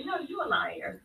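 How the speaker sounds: hissed whispered retort; breathy whispered comeback. Real, not acted. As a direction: whisper it back, defiant. Caller argues back with host.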